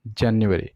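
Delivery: जनवरी said "jan-YU-a-ri"; stress on second syllable. Shown as a demonstration. Teacher showing where the stress sits, stress on second syllable. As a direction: lean on the "nyu" in जनवरी. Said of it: "stress है वो रहेगा second syllable पे".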